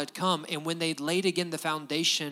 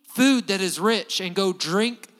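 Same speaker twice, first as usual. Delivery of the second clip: Nehemiah urging; 3 semitones higher, 6 dB louder, slower than usual. Retold or imitated. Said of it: "He said".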